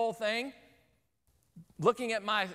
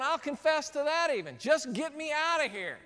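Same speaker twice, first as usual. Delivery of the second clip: higher-pitched comic pleading; mock desperate plea; 5 semitones higher than usual. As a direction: give in and beg, hammed up. Trapped man answers staring passengers, pleading.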